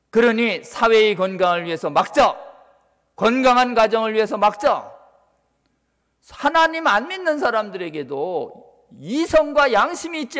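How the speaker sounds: rally the congregation with full-voiced appeals; rallying preaching. Real, not acted. Preacher urging congregation to block the law, rallying preaching.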